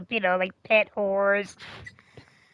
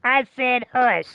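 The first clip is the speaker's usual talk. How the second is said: stern dad; 3 semitones higher than usual. Retold or imitated. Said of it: "finally he'd be like".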